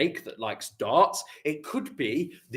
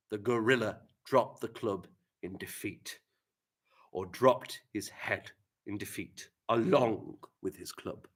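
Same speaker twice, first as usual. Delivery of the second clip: exhausted; 3 semitones lower, 7 dB quieter than usual. Shown as a demonstration. Reading exhausted sentence.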